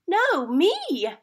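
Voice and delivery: high, loud insistent shout; child shouting. Acted. Hannah fighting over the sandwich, high insistent shout. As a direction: shout to grab it first. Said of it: "shouted Hannah".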